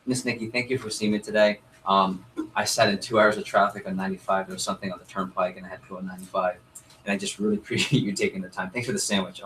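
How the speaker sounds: soft, sincere gratitude; sincere thank you. Shown as a demonstration. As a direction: thank her like you mean it. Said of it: "genuinely thank them".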